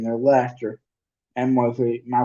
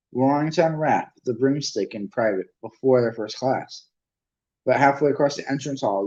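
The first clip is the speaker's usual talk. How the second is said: plain reading voice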